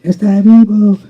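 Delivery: shouted high and loud; street preacher shout. Retold or imitated. Preacher in the plaza calling the crowd, loud shout. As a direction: cry it out across the plaza. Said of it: "y se empezaba a gritar".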